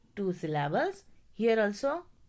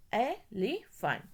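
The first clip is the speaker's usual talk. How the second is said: slow syllable demo; slower than usual. Shown as a demonstration. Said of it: "So we have to divide E, then L E".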